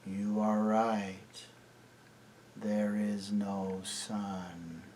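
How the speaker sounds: slow, soft, whispered surrender; dazed whisper. A narrator's reading. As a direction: give in like sleepwalkers. Enchanted children give in.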